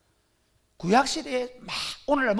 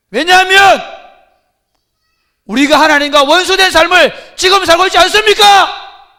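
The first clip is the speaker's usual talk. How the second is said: solemn warning rising to an outcry; Jeremiah prophesying; 4 semitones higher, 16 dB louder than usual. Acted. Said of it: "예레미야가 들어와가지고".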